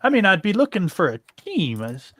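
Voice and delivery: a weird, loose attempt at an Irish lilt; hint of an Irish accent; almost Irish accent. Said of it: "a weird, almost Irish accent for him".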